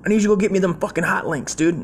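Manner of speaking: put-on old Marine boss ordering hot links; gruff boss order. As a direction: boss barking an errand. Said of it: "That's how he talked".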